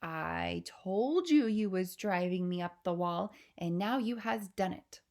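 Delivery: slow, drawn-out giant's dialogue; a storybook giant taking his time; lightly voiced BFG. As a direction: relish the words slowly.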